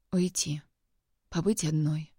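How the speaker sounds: drained, breathe the words out; whispered. Acted. Exhausted Liza whispers to Kirill that she wants to leave, whispered. Exhausted girl answers after crying.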